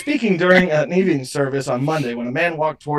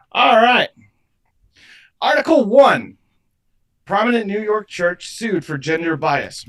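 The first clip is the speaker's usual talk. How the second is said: game show announcer; 7 semitones higher, 4 dB louder than usual. Acted.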